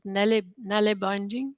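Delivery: nelle said in a light Danish accent. Shown as a demonstration. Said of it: "that's my excellent Danish accent".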